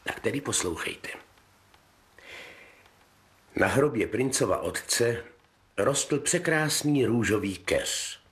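put-on calm fairy tale reading for children; story narration. Narrator reading a fairy tale to kids, gentle storytelling. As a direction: tell it gently like a bedtime story.

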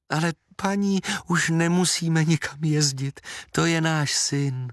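mother tells the aunt it's her son; happy mother. A narrator's reading. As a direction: say it glowing with joy. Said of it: "řekla maminka šťastně".

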